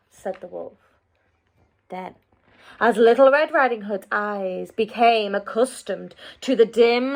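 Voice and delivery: put-on lively read-aloud voice for children; storybook narration. A narrator's reading. Narrator reading a fairy tale to children, lively storytelling. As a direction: tell the tale with wide swings for young listeners.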